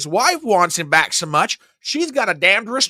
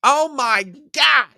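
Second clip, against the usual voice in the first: exasperated groan; 7 semitones higher, slower than usual. Real, not acted. Exasperated sigh-like exclamation.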